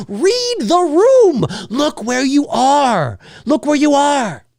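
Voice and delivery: slow, emphatic scold. Acted. Scolding rude parents in theaters, slow and emphatic. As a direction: spell it out slowly to rude parents.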